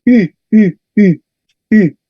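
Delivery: rounded French u sound. Shown as a demonstration. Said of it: "U, como en francés".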